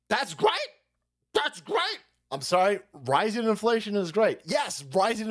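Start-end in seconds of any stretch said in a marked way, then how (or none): 0.1-2.0 mock cheerful economist. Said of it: "Mark Zandi".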